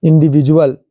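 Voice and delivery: whispered "इंडिविजुअल", each syllable clear; careful pronunciation. Shown as a demonstration. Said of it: "देखो इंडिविजुअल में क्या है".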